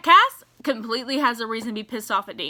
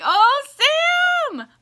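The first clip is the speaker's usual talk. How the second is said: much higher, louder excited cry; thrilled squeal; 6 dB louder than usual. Retold or imitated. Fan reacting to Sam's move, thrilled and loud. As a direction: gush over him. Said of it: "I was like".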